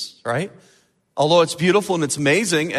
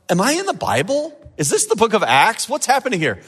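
mock-amazed questions, pitched higher; amazed wondering; 5 semitones higher than usual. Preacher retelling his own thoughts ashore, amazed wondering. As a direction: wonder aloud, lightly incredulous.

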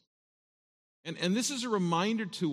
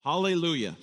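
joyful exclamation; 3 semitones higher, 5 dB louder, faster than usual. Shown as a demonstration. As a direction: burst out with praise. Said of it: "You ever said that before?".

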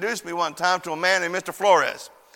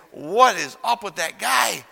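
squeaky pained voice; 3 semitones higher than usual. Retold or imitated. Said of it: "he took all the bass out of my voice".

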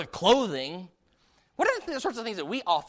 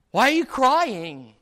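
"why are you crying" higher, louder and slow; drawn-out, raised stress on "why are you crying"; emphatic questioning; 5 semitones higher, 7 dB louder, slower than usual. Shown as a demonstration. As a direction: lean hard on "why" and "crying". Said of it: "that's where the emphasis is".

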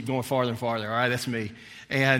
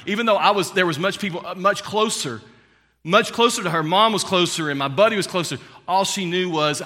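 preaching climax; 6 semitones higher, 7 dB louder than usual. Real, not acted. Sermon building to climax.

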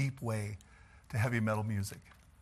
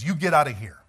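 angry command; 7 dB louder than usual. Retold or imitated. Chasing Witness off driveway.

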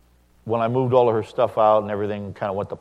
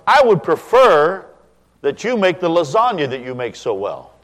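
polite request; 8 semitones higher, 9 dB louder than usual. Shown as a demonstration. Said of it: "That's a good line".

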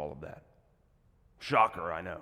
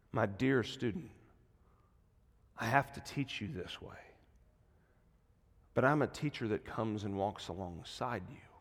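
soft, tender reassurance; low, quiet and comforting; gentle teacher; 3 semitones lower, 4 dB quieter than usual. Acted. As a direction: speak softly as a patient teacher to a struggling student. God answering as a gentle teacher.

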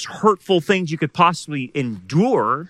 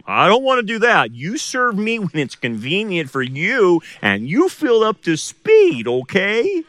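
lightly voiced tempter, a little higher and coaxing; voicing Satan's whisper; 4 semitones higher than usual. Pastor lightly voicing Satan's temptation to the congregation, half-mock coaxing. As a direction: slip into a hint of the tempter's voice to show the thought. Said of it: "Satan tells you that".

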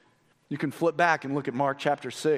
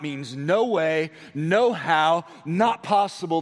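each phrase hit firmly, "no way" slowed; emphatic; 3 dB louder, slower than usual. Real, not acted. Pastor hammering home what "not" means, emphatic. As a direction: spell it out, beat by beat. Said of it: "is emphatic in the Greek".

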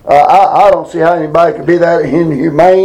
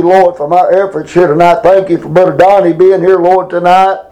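fervent spoken prayer to God; earnest pleading prayer. Real, not acted. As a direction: pray aloud with earnest pleading. Leads a congregational prayer.

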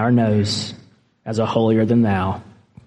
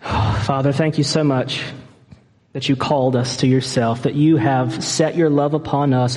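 earnest spoken prayer to God; heartfelt closing prayer. Acted. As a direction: pray it sincerely, steadily.

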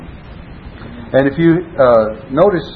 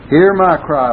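"Hear" lifted high and louder; stress on hear; 5 semitones higher, 4 dB louder than usual. Shown as a demonstration. Preacher repeating the psalm, stressing "Hear". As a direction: lead with a strong "Hear". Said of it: "we'll emphasize certain words".

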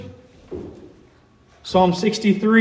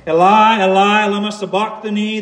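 raised voice, starting loud then easing; crying out loudly; 2 semitones higher, 4 dB louder than usual. Retold or imitated. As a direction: quote an anguished cry, only moderately raised. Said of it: "cried out with a loud voice".

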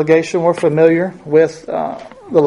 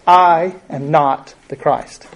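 "I am not the Christ" slow, with the stress on "I"; firm, deliberate denial; emphatic denial; slower than usual. Retold or imitated. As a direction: spell it out slowly and firmly. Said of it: "absolutely crystal clear".

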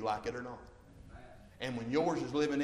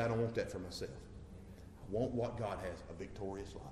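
quiet resolve; 6 semitones lower, 8 dB quieter than usual. Retold or imitated. Quoting someone learning from bad examples.

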